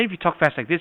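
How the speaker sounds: quick demonstration of fast talk; fast talker. Shown as a demonstration. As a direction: rush through the phrase.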